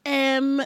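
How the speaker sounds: filler "M" with an "eh" vowel, like "em". Retold or imitated. Woman catching her borrowed accent, "M" as "em" for "um". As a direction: say "M" as an Irish-British hesitation. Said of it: "saying M instead of um".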